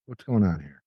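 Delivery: nose clipped shut; pinching nose. Real, not acted. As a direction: talk with a clip on your nose. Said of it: "why do I suddenly sound different".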